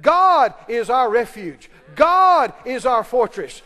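loud, slow, punching GOD each time; bold declaration. Shown as a demonstration. Preacher models what to tell your family, bold loud declaration. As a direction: proclaim it forcefully, phrase by phrase. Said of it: "Let's stand up right now and we'll say it".

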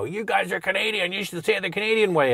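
mocking annoyed Americans. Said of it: "They go".

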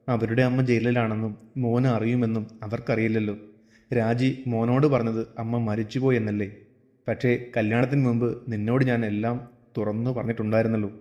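understated, subdued father explaining; lightly voiced father. (അച്ഛന്റെ ശാന്തമായ സംയമന സ്വരം)

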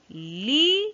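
"Libro" in two syllables with a long pause between; split into syllables. Shown as a demonstration. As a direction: stretch LI upward in "Libro", then pause. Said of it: "Vamos a separar en sílabas".

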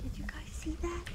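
hushed unvoiced question; whispering. Real, not acted. Whispering to chat about something spotted. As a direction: breathe the question, barely sounding it. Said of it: "I don't know why I'm whispering".

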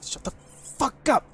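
high, loud, drawn-out yell; exasperated shout. Acted. Bar patron shutting up his rambling mate, exasperated shout. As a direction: yell to silence a babbling friend.

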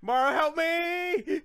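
long wailing shout for rescue; calling for help. Real, not acted. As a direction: stretch out a cry to your teammate. Calls teammate for rescue.

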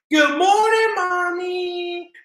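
high, loud bright greeting; excited. Acted. Little girl greets her mom, excited. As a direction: burst out with a happy good morning. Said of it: "Journey said excitedly".

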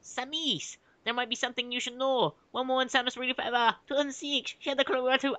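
high-pitched put-on Asian accent; caricatured Asian accent in a high voice; mock Asian accent. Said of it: "making it sound like she's Asian".

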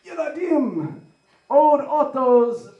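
Hebrew yelled up high, half-joking; mock yell. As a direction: call out to the kids like a rowdy teen.

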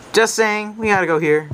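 losing voice, hoarse and strained. Real, not acted. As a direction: talk through a worn-out hoarse voice. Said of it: "I'm losing my voice".

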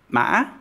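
ma broken by a glottal catch, rising high; hiccup tone. Shown as a demonstration. Teacher demos the broken tone for learners. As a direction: hiccup through ma. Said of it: "hiccup tone".

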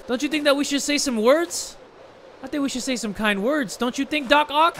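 high-pitched pretend grief; mock-mournful plea. Mock eulogy to companion.

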